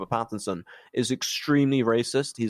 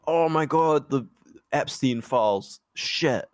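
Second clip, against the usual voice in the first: mock freak-out, higher pitched; 5 semitones higher, slower than usual. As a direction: act out a panicked realisation, lightly hammed-up. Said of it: "he starts freaking out".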